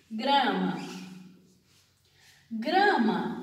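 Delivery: grama said slowly, with both the g and the r clearly heard; teacher sounding out grama for students; careful demo. Shown as a demonstration. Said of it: "eu pronuncio o G e eu pronuncio o R".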